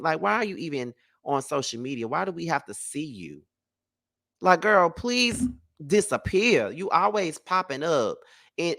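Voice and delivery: high, scornful rant at someone who won't go away; exasperated sass. Retold or imitated. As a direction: roll your eyes and demand she disappear. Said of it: "Because I'm like".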